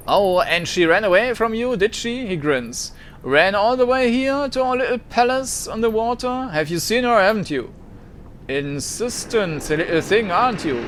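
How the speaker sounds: lightly voiced decadent socialite, teasing; smug teasing host. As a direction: needle them with amused smugness. Mercurio teasing players.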